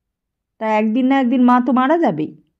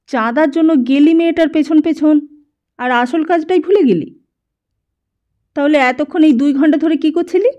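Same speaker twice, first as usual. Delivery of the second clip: raised, louder, higher accusing voice; angry scolding; 4 semitones higher, 4 dB louder than usual. Acted. Kiran scolds Dipankar for wasting two hours, angry and loud. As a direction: scold him for forgetting the real job.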